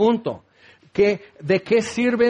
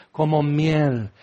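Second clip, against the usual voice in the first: honey voice; 5 semitones lower, slower than usual. Shown as a demonstration. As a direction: pour it out like honey. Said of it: "con una voz así". (voz dulce como miel)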